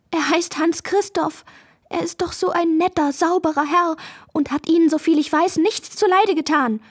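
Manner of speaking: high-pitched, earnest pleading; tearful plea. A narrator's reading. Maja defends Hans Christoph to the dragonfly, tearful pleading. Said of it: "in ihre Augen kamen Tränen".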